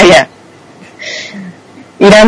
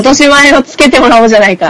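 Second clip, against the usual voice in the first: mock gangster threat, pitched up; yakuza menacing drawl; 5 semitones higher than usual. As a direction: play a hammy yakuza demanding payback. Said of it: "怒ってる、怒ってる感じです".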